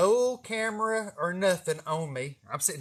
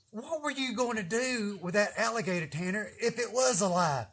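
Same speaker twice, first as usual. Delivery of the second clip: scolding himself; 5 semitones higher than usual. Retold or imitated. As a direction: talk down to yourself like a parent, half-amused. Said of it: "this is what I said to myself".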